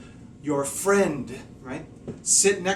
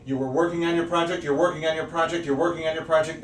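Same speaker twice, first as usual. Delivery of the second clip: tag rapid repetition; faster than usual. Shown as a demonstration. Acts out steady repetitive work.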